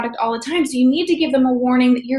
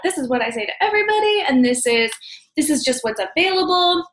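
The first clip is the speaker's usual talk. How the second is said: unattached energy; 3 semitones higher than usual. Shown as a demonstration. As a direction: sound like it's routine for everyone. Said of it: "they'll feel that unattached energy".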